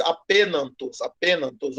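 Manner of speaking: "apenantos" with N in place of R; imitated mispronunciation. Teacher repeats what the student said, imitated mispronunciation. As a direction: quote the student's slip, "apenantos". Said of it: "eu acho que você disse".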